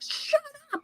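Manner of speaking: very high, held-back mock yell; mock screamed retort. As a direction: squeal it as an imitated scream, without volume.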